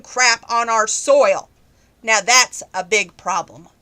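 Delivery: real frustration boiling up over lost car jobs; getting emotional. Real, not acted. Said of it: "I get a little emotional".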